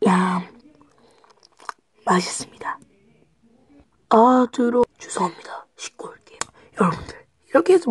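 speaking between bites; talking while chewing. Real, not acted. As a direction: mouth full of chocolate. Seen 0: Extreme close-up: jaw working, cheek bulging, food visible between teeth.

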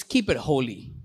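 hushed. Acted.

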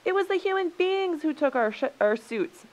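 high, loud accusation; indignant shout. A narrator's reading. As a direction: shout the blame across at the others. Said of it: "shouted the animals".

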